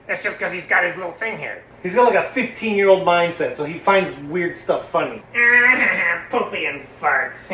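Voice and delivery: lightly voiced teen puppet giggling; Stanley. Stanley talking about his silly humour, slight character voice. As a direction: giggle at gross jokes like a teen. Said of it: "I know he sounds like this".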